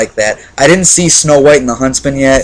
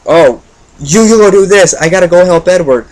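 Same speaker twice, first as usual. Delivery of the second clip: higher, urgent movie-quote delivery; lightly acted heroine, pitched up; imitated movie heroine; 6 semitones higher than usual. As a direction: quote her line with a raised pitch. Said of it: "where Gretel is saying".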